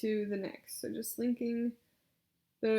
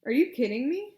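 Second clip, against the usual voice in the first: "Are you kidding me?" loud with a rise on "you" and at the end; loud rising disbelief; 3 semitones higher, 9 dB louder than usual. Shown as a demonstration. Therapist models rising intonation for the client. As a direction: sound loudly incredulous. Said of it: "if there's an exclamation point, make sure you rise".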